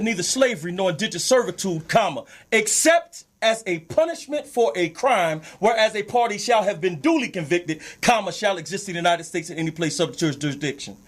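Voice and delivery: deliberate reading with punctuation spoken aloud; slowed-down reading. Shown as a demonstration. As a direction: spell it out so everybody can get it. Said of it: "let me slow it down".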